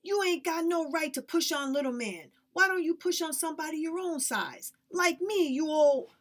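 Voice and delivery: put-on high, loud furious child; girl shouting at the man who pushed her brother.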